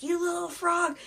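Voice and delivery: high-pitched, lightly acted irritation; mock pissed-off princess. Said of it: "So she gets pissed".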